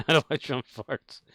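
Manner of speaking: "How to light your own farts" echoed through a real laugh; amused echo of "How to light your own farts"; laughing repeat. Real, not acted.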